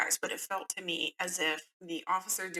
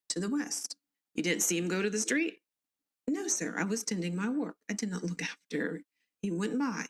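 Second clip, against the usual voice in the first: put-on southern accent. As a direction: read the inquest lines with a Southern lilt. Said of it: "give everybody a southern accent".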